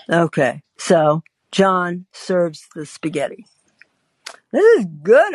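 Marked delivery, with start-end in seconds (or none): 4.5-5.3 mock enthusiastic. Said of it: "I say, digging in".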